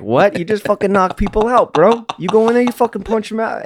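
high-pitched mock disbelief; retold baffled objection, voice rising sharply; incredulous. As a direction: climb high, as if protesting to a friend. Retold astonished reply to a fighter.

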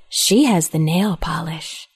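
slow, lightly voiced little boy; a hint of sweet menace, drawn out; sweetly ominous child. Three-year-old reporting on his sister, mock-sweet. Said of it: "He sweetly said".

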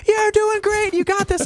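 high, chirpy mock cheering; cheerful spectators. Spectators cheering exhausted runner, chirpy mock cheer. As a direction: cheer like a sideline fan. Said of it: "people on the side of the race".

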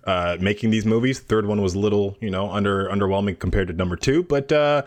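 lightly done hockey player interview. Acted. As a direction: answer like an athlete at a post-game interview. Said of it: "That was my hockey player impression doing interviews".

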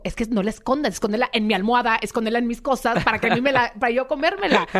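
coaxing, ending in a laugh; playful coaxing. Retold or imitated. Patient coaxing a girl to hand over her food, laughing. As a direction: egg her on to hide the food, laughing at the end.

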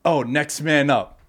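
slow, mocking sports cliché; mock the saying, drawn out. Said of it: "another thing that I hate".

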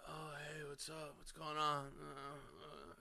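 very soft, under-the-breath mumble; feigned casual greeting. Retold or imitated. Boy who faked sleep greeting sister's friend, soft feigned innocence. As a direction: play it innocent, barely audible. Pretending to wake casually, acted out.

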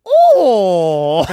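loud, drawn-out, exaggerated mock Asian cry; mock Asian accent. Buddy picking up mom's call, mock Asian accent. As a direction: blurt it high in a caricatured Asian accent. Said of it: "talks to his mom in a racist Asian accent".

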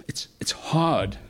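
whispered, slow; whispered confession. Real, not acted. Preacher confides to congregation, slow whisper. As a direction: breathe it out quietly, like a confession.

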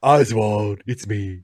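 lightly voiced Oswald impression; a hint of Oswald; bad Oswald voice. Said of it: "the worst Oswald ever".

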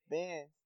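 "bands" said with no punch; lazily understated "bands"; lazy delivery. Shown as a demonstration. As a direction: let "bands" fall away with little effort. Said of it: "saying everything as lazily as you can".

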